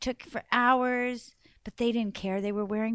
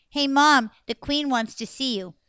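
calling out; 2 semitones higher, 7 dB louder than usual. Acted. Girl calls to her mother.

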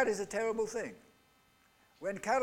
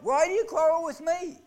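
Moses rebuking; 9 semitones higher, 6 dB louder than usual. Retold or imitated. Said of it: "Moses replied".

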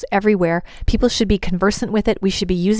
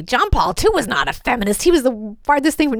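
higher, emphatic protest; mock objection; 3 semitones higher than usual. Objector disputing that the pope was feminist, mock objection. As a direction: imitate an indignant objector.

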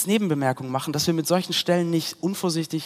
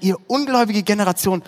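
raised, louder mock exasperation; impatient outburst; 4 semitones higher, 5 dB louder than usual. Preacher quoting Jesus losing patience with unbelievers, exasperated. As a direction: quote an impatient rebuke with some heat. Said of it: "Jesus wird richtig emotional".

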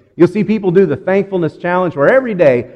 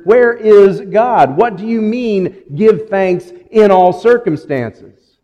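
desperate plea; 4 semitones higher, 4 dB louder, slower than usual. Acted. Voicing a desperate believer's question.

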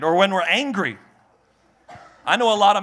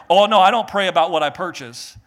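mock indignant shout; 4 dB louder than usual. Mocking churchgoer.

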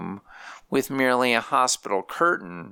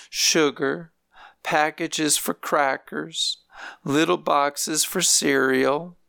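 lightly voiced elderly grandmother, pitched higher; grandmother's voice; 5 semitones higher than usual. Grandmother telling visiting family about nursing home life, higher lightly voiced. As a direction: lift the voice for an old woman complaining gently.

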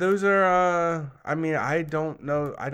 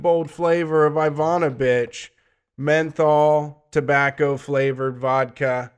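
mock sponsor read; 5 dB louder than usual. Host presenting tonight's joke vodka sponsor to listeners, mock sponsor read. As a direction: show host's announcer delivery.

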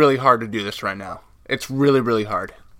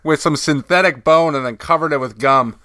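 talking with gauze in mouth. Real, not acted. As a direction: mouth stuffed with gauze after tooth extraction. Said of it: "I got some gauze in my mouth".

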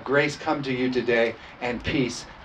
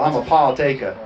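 playful Southern-accented "Paul taker"; Southern drawl; 5 dB louder than usual. Shown as a demonstration. Pastor playing on "partakers" for the church, Southern drawl. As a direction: drop the r's with a Southern drawl. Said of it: "Or a Southern accent, a Southern drawl".

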